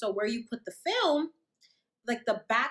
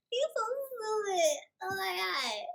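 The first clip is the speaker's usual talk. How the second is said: laughing brush-off; 8 semitones higher, 3 dB quieter than usual. Retold or imitated. Still laughing at Kenny.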